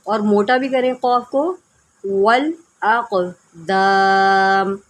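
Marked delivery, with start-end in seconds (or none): 2.0-4.8 slow melodic Quran chanting; tajweed recitation. Shown as a demonstration. Teacher models the verse for online students, slow recitation. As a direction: stretch the vowels in measured recitation.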